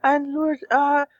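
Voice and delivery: lightly voiced sultry woman; Roz voice. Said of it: "to the Roz voice".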